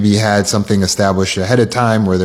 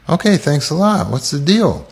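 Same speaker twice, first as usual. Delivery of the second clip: roommate's reply; 5 semitones higher than usual. Acted.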